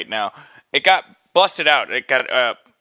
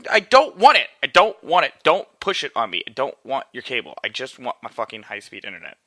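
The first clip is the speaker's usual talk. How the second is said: angry rant. Real, not acted. Ranting at upselling cable people, angry. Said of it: "I'm getting so angry".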